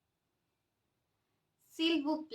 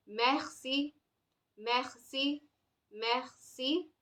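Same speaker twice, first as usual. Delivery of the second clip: French guttural R in "Merci"; softly modelled French "Merci", R rasped at the back of the throat; French accent; 6 dB quieter, slower than usual. Shown as a demonstration. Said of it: "read it with this accent".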